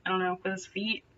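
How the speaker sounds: ordinary delivery, nothing marked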